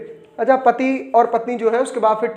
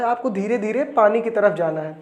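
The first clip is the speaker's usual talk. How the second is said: softer, dreamy romantic murmur; romantic mood; 3 dB quieter than usual. Retold or imitated. Husband pitching his film to his wife in a romantic mood. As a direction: woo her gently with the words. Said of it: "romantic mood में पति बोलता है".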